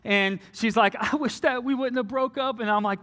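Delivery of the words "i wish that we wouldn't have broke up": higher-pitched mock crying plea; imitated tearful pleading. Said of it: "she is bawling, crying".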